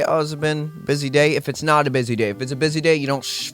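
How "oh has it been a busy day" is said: polite small talk. Shown as a demonstration. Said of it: "just say".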